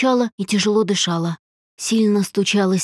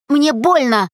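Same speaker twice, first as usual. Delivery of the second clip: high, loud cry of pain; 6 semitones higher, 4 dB louder, slower than usual. A narrator's reading. Wife cries out in pain as husband grabs her arm. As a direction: cry out that it hurts. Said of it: "крикнула она".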